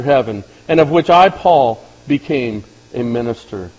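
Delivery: measured, solemn reading of a Bible passage; scripture reading. Acted. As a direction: read it like holy scripture before the sermon. Reads scripture aloud to congregation.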